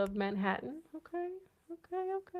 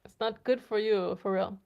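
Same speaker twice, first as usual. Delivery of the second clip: loud, firm scolding; stern warning; 7 dB louder than usual. Real, not acted. Scolding a viewer, loud and firm. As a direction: tell him off firmly.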